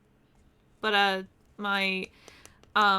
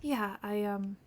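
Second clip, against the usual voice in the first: Shiloh the escaped sailor, quiet and reflective; in-character sailor telling his story; 4 dB quieter than usual. Acted. Roleplay character quietly telling other players his backstory, subdued. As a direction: softly recount the escape, a touch wistful.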